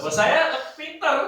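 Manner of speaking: high laughing words. Real, not acted. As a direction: keep laughing through it. Laughing continues. (sambil tertawa)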